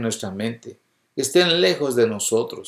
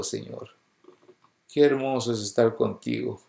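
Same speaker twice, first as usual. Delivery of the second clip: tender prayer; 3 dB quieter than usual. Acted. Preacher showing how to tell God he feels His presence, prayerful. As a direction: pray it quietly, savoring each phrase.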